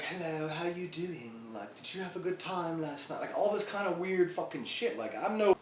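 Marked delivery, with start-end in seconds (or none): 0.0-3.2 1940s lady voice. Retold or imitated. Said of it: "talking to me like she's from, like, the fucking forties".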